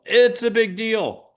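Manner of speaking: high, drawn-out mock alarm; overblown alarm. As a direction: blow it up, slow and high. Mock argument, big deal versus not.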